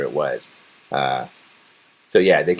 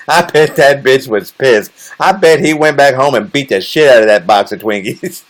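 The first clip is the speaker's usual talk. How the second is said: amused; 5 semitones higher, 5 dB louder than usual. Real, not acted. Laughing about the angry buyer.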